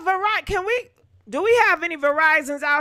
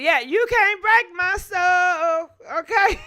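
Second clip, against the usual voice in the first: defiant cry; 3 semitones higher, 3 dB louder than usual. Real, not acted. Telling the demons they can't break her, crying out. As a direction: fling the Okay out defiantly.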